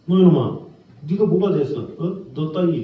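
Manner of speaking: mock demeaning nag, pushing down; contemptuous scolding. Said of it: "막 그러면서 인격을 무시하면서".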